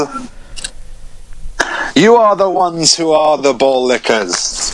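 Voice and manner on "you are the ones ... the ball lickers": goofy quote voice. Retold or imitated. Quoting the film line.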